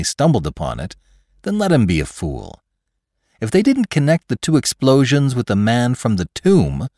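animated, mocking storytelling with high swoops; scornful narration. A narrator's reading. Lantry dismisses the trusting fools in thought, scornful and animated. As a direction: pour disdain on the fools.

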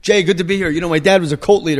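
lightly sarcastic mimicry; mocking the guest. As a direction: imitate him dropping a bombshell as small talk. Mock-quotes the guest's casual opening.

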